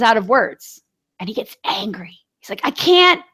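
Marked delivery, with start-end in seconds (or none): 2.6-3.2 high, drawn-out mock wail; slow, high-pitched tearful whine, put on; imitated crying child. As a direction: imitate a kid crying in frustration. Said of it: "and he's crying".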